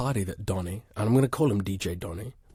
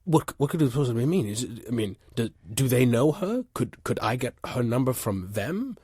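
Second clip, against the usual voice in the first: excited disbelief; 3 semitones higher than usual. Acted.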